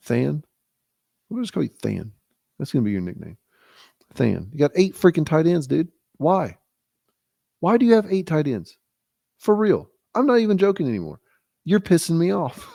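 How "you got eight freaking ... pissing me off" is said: playing angry until the laugh breaks; mock anger. Ribbing a friend over tight ends, mock angry. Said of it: "Damn it. I broke".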